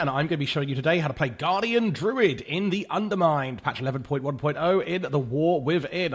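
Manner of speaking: lightly voiced sports commentator intro; a hint of a sports announcer opening. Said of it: "I say it like I'm a sports commentator".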